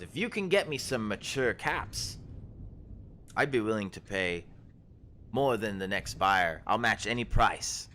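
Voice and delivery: a startled forager shooing travellers back; herb-picking woman. Acted. GM voices Ashleen.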